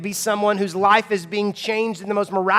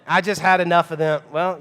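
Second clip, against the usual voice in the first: ordinary delivery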